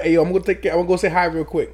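put-on playful New Jersey henchman accent. Gamer playing Warzone as henchman, in mobster accent. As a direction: talk like a mobster's eager henchman. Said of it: "the best henchman accent".

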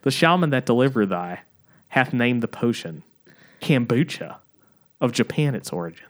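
stagey Southern barkeep; Southern accent. Acted. Bartender naming the potion kombucha, attempted Southern accent. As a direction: retake it with a put-on Southern accent. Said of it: "this is supposed to be in a Southern accent".

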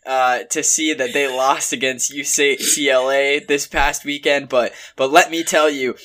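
wrestling promo. Acted. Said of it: "I'll look at the camera".

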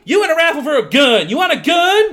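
high, hammed-up Southern sales pitch; put-on Southern accent. Mock Southern official pitching the raffle.

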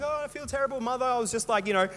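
imitating mum apologising to her son in hospital; guilty mum. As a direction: play mum full of remorse. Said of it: "She's like".

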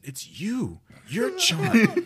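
very high, loud gleeful shout; boy shouting the insult back at the bully; triumphant kid retort. Retold or imitated. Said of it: "and I said".

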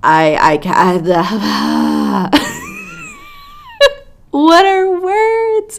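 high, breathless fangirl squeal; overwhelmed. Real, not acted. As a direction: lose words from excitement. Overwhelmed with excitement.

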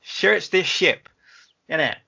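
put-on slow, drawn-out Vader order in a Bristol accent; slow West Country Vader. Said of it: "he's all Bristol".

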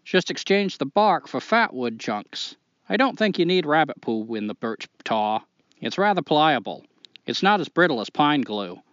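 put-on reading a letter in a Maine accent. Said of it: "do the whole thing in a Maine accent".

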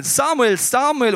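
high, loud call of a name. A narrator's reading. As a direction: call the sleeper loudly from afar. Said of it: "der Herr rief noch einmal".

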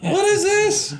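high, loud amazed question; astonished question. Real, not acted. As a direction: ask in disbelief. Surprise at magazine page.

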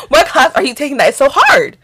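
high, loud, incredulous question; disrespectful challenge. Retold or imitated. Challenging roommate about her classes, loud and disrespectful. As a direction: demand it with exaggerated scorn. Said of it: "I was low-key being disrespectful".

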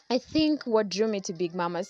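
winded from walking, short breaths. Real, not acted. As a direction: talk while catching your breath. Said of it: "I'm out of breath".

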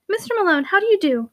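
vibrating tones. A narrator's reading. Shirley greets the fleeing Malone below the gallery, vibrating tones. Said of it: "vibrating tones".

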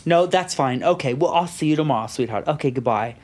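lightly imitated Boston phone talk; Boston accent. Father signing off to his daughter, Boston accent. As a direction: settle down into a mild Boston accent. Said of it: "Is he from Boston now?".

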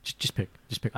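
hissed, insistent urging; husband quietly pressing his wife to choose; urgent whisper. Retold or imitated. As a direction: whisper it through impatience. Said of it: "I was like".

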